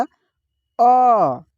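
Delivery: अ said short and quick; short a sound. Shown as a demonstration. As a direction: say the vowel अ short and crisp. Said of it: "अ का जो उच्चारण होता है ना, slowly होता है". (छोटा अ, जल्दी बोलें)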